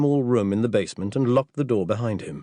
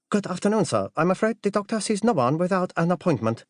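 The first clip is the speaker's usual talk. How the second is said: high-pitched, deferential butler voice; formal butler; 9 semitones higher than usual. Acted. Butler to an unexpected caller, high formal servant voice. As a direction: politely turn the caller away, pitched well up. Butler answers a visitor at door.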